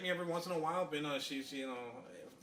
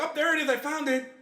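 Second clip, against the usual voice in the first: much higher and louder, gleeful; squealing triumph; 12 semitones higher, 11 dB louder than usual. Retold or imitated. Mocking the friend who finally found the hole, gleeful squeal. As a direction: shriek it like you finally found it.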